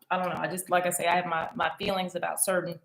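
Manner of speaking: talking while chewing a snack. Real, not acted. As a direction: speak around a mouthful. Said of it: "talk while I'm eating".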